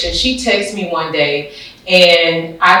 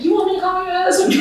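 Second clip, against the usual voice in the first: much higher, fast, breaking into a laugh; laughing quote; 11 semitones higher, 4 dB quieter, much faster than usual. Retold or imitated. Quoting her leader's offer to the host, laughing. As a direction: toss it off through a giggle. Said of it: "she said".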